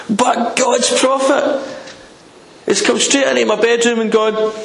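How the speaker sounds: high, insistent preaching run; worked-up, high-pitched emphasis; emphatic build-up. Acted. Building up the shock of Isaiah's visit.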